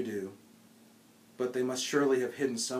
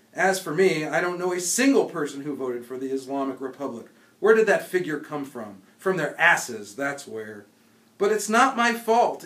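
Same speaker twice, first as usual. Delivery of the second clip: dad fuming at the television results; father's indignant rant; 3 semitones higher, 6 dB louder than usual. Acted. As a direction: rail against the faked election.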